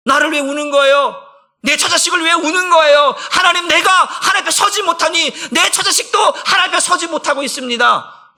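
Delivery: high, shouted pleading sermon; impassioned preaching. Real, not acted. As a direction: cry out as if before God. Preacher at full force. (부르짖듯 격정적인 설교)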